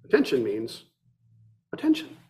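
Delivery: soft, gentle master's reply; gentle answer. Acted. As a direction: answer gently, like a patient teacher. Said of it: "Ikkyu answered gently".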